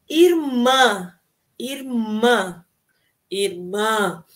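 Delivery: repeated irmã drill; nasal irmã. Shown as a demonstration. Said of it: "Irmã termina na vogal A, que é nasal".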